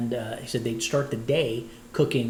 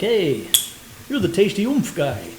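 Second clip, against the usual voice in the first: calling out excitedly; 6 semitones higher, 5 dB louder than usual. Retold or imitated. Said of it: "Be like".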